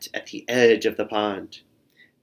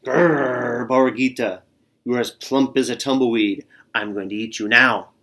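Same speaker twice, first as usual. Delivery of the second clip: louder, menacing coyote growl; 3 dB louder than usual. Acted. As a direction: threaten the plump lamb with a growl. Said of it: "and he growled".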